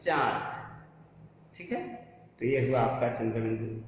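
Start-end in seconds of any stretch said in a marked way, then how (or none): 0.0-0.4 चांद with a nasalised आ, no separate n; nasalised vowel. Shown as a demonstration. Teacher showing students the correct चांद, nasalised vowel without full n. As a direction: say चांद through mouth and nose together. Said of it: "हम मुंह से उच्चारण किए और नाक की सहायता लिए".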